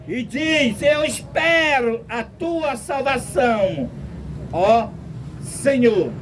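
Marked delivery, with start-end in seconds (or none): none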